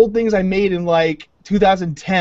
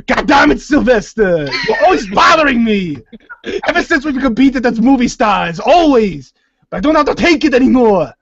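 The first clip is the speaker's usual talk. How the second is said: Arnold loses it at Stallone, louder; hammed-up rant at a rival; mock angry outburst; 2 semitones higher, 4 dB louder than usual. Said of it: "Arnold blows up at Stallone".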